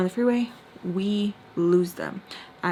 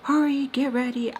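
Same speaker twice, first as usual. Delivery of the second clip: raised, higher-pitched urging; retold yell; 5 semitones higher than usual. Boyfriend rushing her to get ready, imitated yell. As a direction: imitate him rushing you, mildly yelled. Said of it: "He's yelling at me".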